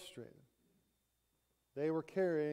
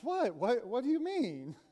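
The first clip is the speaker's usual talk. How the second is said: startled; 5 semitones higher than usual. Retold or imitated. Brown taken aback by her friend's retort, high and startled. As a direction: pitch jumps high on the first word, then stays raised.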